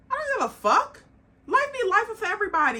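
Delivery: loud, high, fast exasperated rant; exasperated outburst. Real, not acted. Ranting at people who hide behind hard times, loud and fed up.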